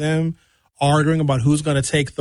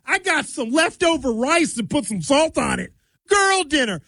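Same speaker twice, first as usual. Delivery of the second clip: put-on much higher, airy-headed valley girl parody; mock white girl voice; 9 semitones higher than usual. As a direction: lampoon the proud TikTok girl. Mocking a white woman on TikTok.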